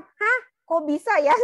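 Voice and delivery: high, loud astonished gasp of a question; stunned disbelief. Retold or imitated. Wife reacting to husband wanting a house, astonished. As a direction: hit it like the news knocked you sideways.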